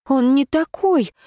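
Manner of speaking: plain reading voice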